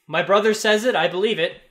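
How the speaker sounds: mildly dismissive, a touch rude. Acted. Brother dismissing the party, coolly dismissive. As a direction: brush the question off coolly. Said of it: "rather dismissive look".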